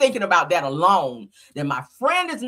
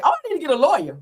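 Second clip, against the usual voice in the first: higher, louder mocking voice for the friend's lawyer line; mock guilty friend; 7 semitones higher, 4 dB louder, faster than usual. Host mocks the best friend's rush to lawyer up, in a higher, louder sneering voice.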